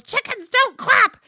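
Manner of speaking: high, slow, full-out yell; Buster yelling. Acted. Quoting Buster in the chicken fight, high yell. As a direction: scream each word in outrage. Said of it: "and then Buster yells".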